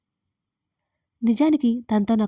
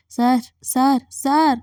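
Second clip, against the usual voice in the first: higher, louder calls of sir; calling out; 4 semitones higher, 4 dB louder, much slower than usual. Acted. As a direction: call out to wake him up. Calling a silent drunk caller. (గట్టిగా పిలవడం)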